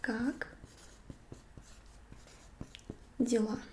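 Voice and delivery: "Как", then a long pause, then "дела"; split slow. Shown as a demonstration. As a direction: cut "Как дела" into two slow parts. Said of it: "it's going to be".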